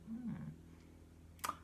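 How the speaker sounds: thoughtful hum. Retold or imitated. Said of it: "And I went".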